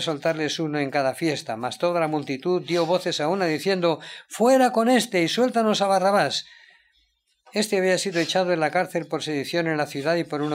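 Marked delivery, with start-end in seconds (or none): 4.3-6.4 raised, higher call of an angry mob; crowd shout. Acted. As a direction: shout it as the crowd demanding Barabbas. Crowd shouting against Jesus.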